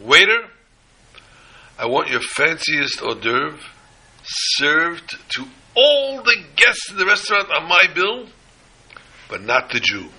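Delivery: high, loud rich-man summons to the waiter; calling out loud. Retold or imitated. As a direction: call the waiter grandly across the room. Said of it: "He calls out, out loud".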